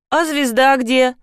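ленивый тон школьницы, повыше; лениво протяни вопрос. A narrator's reading. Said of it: "лениво осведомилась школьница". (школьница лениво спрашивает о звезде, лениво)

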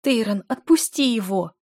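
weeping plea; tearful plea. A narrator's reading. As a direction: beg through tears. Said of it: "слёзно взмолилась Дель".

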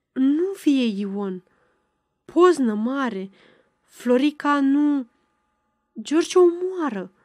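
a mild mock howl, urgent and broken; half-hearted yell of a frantic old woman; old woman warning Ana of murder, in a mild yell; howling fast. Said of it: "urlă dânsa foarte iute".

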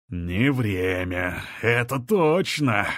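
slow, drawn-out purr. A narrator's reading. The overlord mockingly agrees with Криденс, purring. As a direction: savour each word like a purring cat. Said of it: "промурлыкал повелитель".

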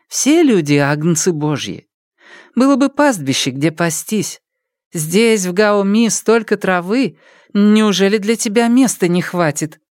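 persuading mother. Acted. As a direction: gently win him over to stay.

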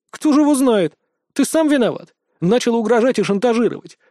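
put-on loud, heated scolding of the boy; angry scolding. A narrator's reading. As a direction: tear into the boy. Captain berates the boy.

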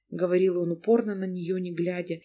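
usual speaking voice

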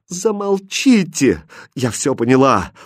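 enraged princess cutting him off; furious outburst. Acted. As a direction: tear into him. Princess raging at her captor.

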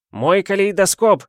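high, loud wail over a broken treasure; anguished cry. A narrator's reading. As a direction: cry out in despair, wringing hands. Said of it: "вскричал, заламывая руки". (отчаянный вскрик)

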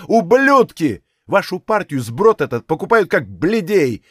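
officer raging at Bolsheviks; furious shouting. A narrator's reading. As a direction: spit out the insults in fury. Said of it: "Калмыков кричал".

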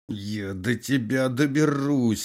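slow, moaning vow of revenge; groaned threat. A narrator's reading. Wounded prisoner threatening the colonel, moaning. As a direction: moan it as you drift off. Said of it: "стонал раненый".

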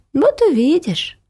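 put-on high, slow child's taunt; high, slow, smug kid; little girl's threat. A narrator's reading. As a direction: promise it slyly like a smug child. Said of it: "ответила Ася".

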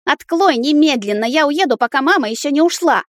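put-on a boy insisting to leave; demanding child. A narrator's reading. A furious son demands his father open the door.

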